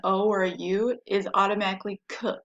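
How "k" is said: "k" as a short isolated consonant sound; hard K sound. Shown as a demonstration. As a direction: sound out "k", not the letter name. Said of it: "the k sound".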